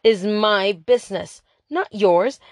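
slow, emphatic outburst; exploding. Acted. Mia explodes at Lily about kissing, emphatic. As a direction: hammer each word out in anger. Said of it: "I exploded".

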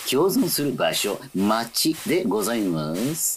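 conductor announcement. Acted.

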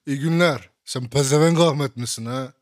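loud, blunt demand down the phone; mock prank caller. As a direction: call out loudly, challenging the listener. Acts out speakerphone prank caller.

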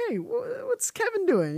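high, puzzled fan asking; curious viewer voice. Retold or imitated. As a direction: ask it like a confused viewer. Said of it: "you wanna say".

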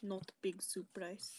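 slow, attempted Russian accent; reluctant stab at a Russian accent. Co-host asked for it, halting Russian accent. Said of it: "Do it in a Russian accent".

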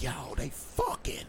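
slow, softened retold reaction; hushed disbelief. Boy overhearing a tape, in hushed disbelief. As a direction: drop to a hushed, drawn-out realization. Retelling his stunned childhood reaction.

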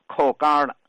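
扣杆儿了 with hard-g, r-coloured "gar"; Tianjin dialect pronunciation. Shown as a demonstration. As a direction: demonstrate local 扣杆儿了, gar in place of jia. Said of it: "天津人就读成杆儿".

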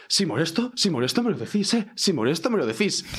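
mock-offended guy, repeating himself insistently; retold huffy, wounded protest; super offended. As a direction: imitate someone taking huge offence. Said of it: "el tío como súper ofendido".

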